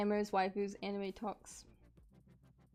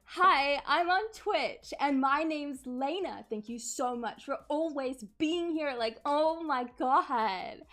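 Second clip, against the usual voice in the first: put-on high, loud, bubbly streamer girl gushing; valley girl voice; 5 semitones higher, 6 dB louder, slower than usual. Shown as a demonstration. Mocking female streamers, loud high valley girl voice. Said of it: "let's see if I can do it".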